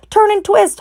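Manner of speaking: very high honking shout. A narrator's reading. Goose honking orders at Wilbur. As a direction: honk it like a goose. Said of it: "honked the goose".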